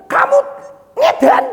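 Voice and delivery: shrill high mock; high mocking warning. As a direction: squeal it as a jeering taunt. God warning of going mad.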